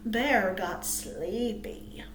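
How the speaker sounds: slow, drowsy read; sleepy. Acted. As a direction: let it drag out like a yawn. Narrating bear getting sleepy.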